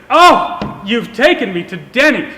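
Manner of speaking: imitating his girlfriend's surprise; mock gasp of surprise. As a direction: act out her surprised reaction with a laugh. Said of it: "gasps, and she says".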